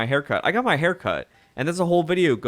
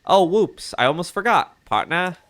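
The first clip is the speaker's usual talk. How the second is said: put-on mid-Atlantic accent; 4 semitones higher than usual. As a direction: exclaim it like a mid-Atlantic newsman. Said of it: "like, a mid-Atlantic accent".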